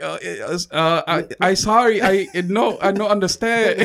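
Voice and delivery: fake Asian accent. Clerk dodging a customer's question, fake Asian accent. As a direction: feign little English in a put-on Asian accent. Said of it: "started doing an Asian accent".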